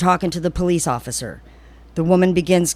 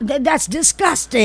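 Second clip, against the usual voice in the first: mock disgust; 8 semitones higher than usual. Joins the mock shaming.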